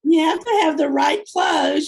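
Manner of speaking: loud, high, playful insistence; a mock-serious pronouncement on outfits; emphatic. Real, not acted. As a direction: declare it like a fashion rule.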